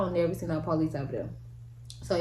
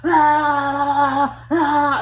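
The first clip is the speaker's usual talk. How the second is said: higher, loud mock shouting of threats; imitated yelling; 8 semitones higher, 7 dB louder than usual. People outside the police car, shouting threats loudly. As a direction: holler it through the car window. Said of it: "they just yelling and screaming and hollering".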